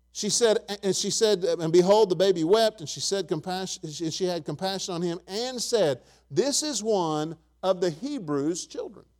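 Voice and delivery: driving, emphatic pulpit voice; emphatic preaching. Real, not acted. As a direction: preach it with weight on key words. Preaches from the scripture.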